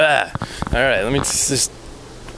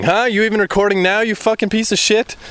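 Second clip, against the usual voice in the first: much higher, strained snarl at the gear; angry at the mic; 9 semitones higher than usual. Real, not acted. Yelling at his microphone that may not record, angry. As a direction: scold the broken microphone.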